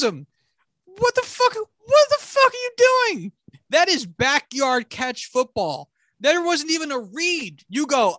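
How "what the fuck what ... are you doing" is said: much higher, strained yelling at the screen; exasperated yell. Real, not acted. Fan yelling at the quarterback on TV, high strained outburst. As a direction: scream your disbelief.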